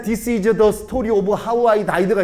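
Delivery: slow, breathy-free English, "This is the story of how I died" pushed on air; airy English demo. Shown as a demonstration. 영어 발음 시범, 천천히. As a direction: say "This is the story of how I died" slowly, spending air on each word. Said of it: "세련되게 말하려고 하는 게 아니고".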